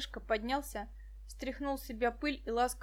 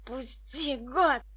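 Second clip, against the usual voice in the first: wheezing; 5 dB louder, much slower than usual. A narrator's reading. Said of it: "хрипел коротышка".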